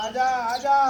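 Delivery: high, loud herder's call. Real, not acted. Farmer calling stubborn buffalo, loud high call. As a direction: holler it across the field.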